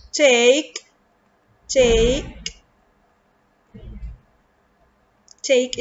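"take" said slowly with a long, clear A as in "day"; long A demo. Shown as a demonstration. Teacher drawing out the A in "take" for pupils. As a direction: stretch the vowel in "take" for the class. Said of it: "It's a long vowel A".

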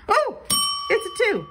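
high surprised squeal. Real, not acted. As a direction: jump way up in pitch, caught off guard. Surprised by a match.

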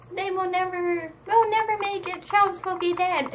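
high-pitched, urgent imitation; mock desperation. Ruby fearing Chubbs will die, mock desperation. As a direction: plead it high, as if time runs out.

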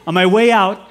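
ordinary talk, nothing marked

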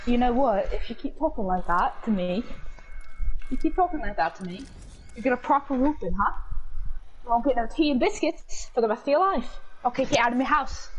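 scolding mum with a put-on British accent; mock-stern British mother; British mom. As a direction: tell off a child in a British accent. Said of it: "That sounds more British, Mom".

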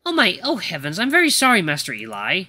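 mildly anxious, rising on the apology; a touch of dismayed servant; flustered apology. Acted. Butler apologises to fallen Master Eli, mildly flustered.

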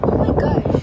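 high squeal of dismay; surprised shriek. Real, not acted. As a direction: shriek as the wind hits. Hair blown by strong wind.

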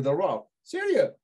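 mock disbelief, pitch jumping up. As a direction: react stunned at the news.

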